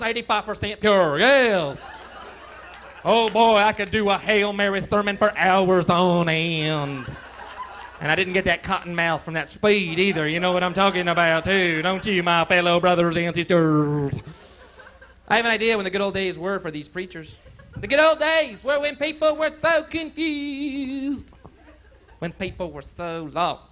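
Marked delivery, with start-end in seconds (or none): 3.0-14.1 raised, loud preacher voice; preaching. Pretend. Mock preacher sermon. 15.3-23.6 preaching. Pretend. Preacher sermon build, fading.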